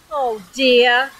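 mild weary groan; understated storybook dismay. Acted. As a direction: groan it, dragged out of bed. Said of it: "groaned Mister Happy".

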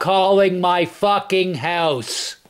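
slow, every word spat out; slow angry demand. Real, not acted. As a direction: lay down the law slowly.

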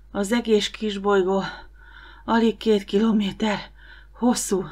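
a touch of breathlessness from the walk; lightly puffing out the words; panting. Acted. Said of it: "lihegte Ariel".

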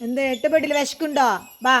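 high coaxing voice to the dog; pet talk. Real, not acted. Mother coaxing her pet dog. (അരുമയോടുള്ള കൊഞ്ചൽ)

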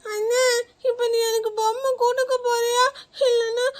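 put-on tearful, pleading little girl; crying child. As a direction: sniffle through the whole plea. Child keeps crying for the doll. (அழுதுகொண்டே கெஞ்சும் குழந்தை)

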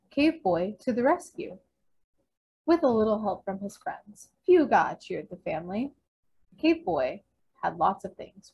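animated picture-book narration with punchy key words; read-aloud to children. A narrator's reading. Librarian reads a caveman picture book to children, animated storytelling. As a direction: read the story out, acting each line.

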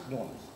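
New Orleans squeezed into two syllables, "Lawrence"; local pronunciation of New Orleans. Shown as a demonstration. Speaker teaching the audience the local name, local pronunciation. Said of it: "it's pronounced Lawrence".

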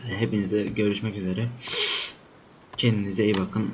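sick voice with a stuffy nose; sniffly, stuffed-up voice from a cold. Real, not acted. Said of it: "Hasta olduğum için de sürekli burnumu çektim".

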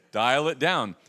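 a hint of a wife, quiet and laughing; hushed, amused wife telling him to tone it down; lightly voiced wife, soft and laughing; wife gently scolding. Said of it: "she'll say".

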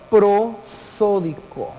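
"prosódico" split slowly into pro, só, di, co; slow and syllabified. Shown as a demonstration. Teacher gives students the accent type, slowly syllabified.

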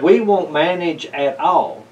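a touch of hopping-mad sputter; the upset cat sputters his complaints at the visitor; mild sputtering anger. Acted. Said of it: "hopping mad and sputtered".

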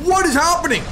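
high, loud baffled question. Real, not acted. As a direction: ask it in total disbelief. Confused by lagging enemy.

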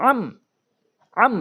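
"আম" with a short, clear m, said separately; clear, no ghunnah. Shown as a demonstration. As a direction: end each "আম" without humming. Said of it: "স্পষ্ট". ("আম" গুন্না ছাড়া স্পষ্ট করে)

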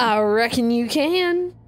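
Southern drawl held again. Acted. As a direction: lean into the drawl. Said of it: "no G's on the end".

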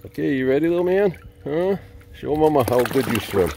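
high, sing-song pet voice; doting dog-mom voice. Real, not acted. Talking to the dog in the pool.

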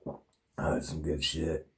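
breathy whispered aside to himself. Real, not acted. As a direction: whisper it with relish. Private aside after the story.

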